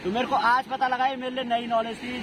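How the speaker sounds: ordinary talk, nothing marked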